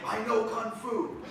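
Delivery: slow, awed declaration; slow movie-line reveal; slow Matrix quote. Retold or imitated. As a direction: deliver it like Neo waking up. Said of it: "It's like the Matrix".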